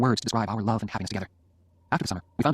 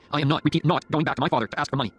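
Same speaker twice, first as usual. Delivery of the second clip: raised, emphatic refusal; angry; 5 semitones higher, 3 dB louder than usual. Acted. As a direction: dig in angrily, word by word. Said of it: "I said angrily".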